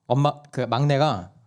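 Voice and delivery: normal talking voice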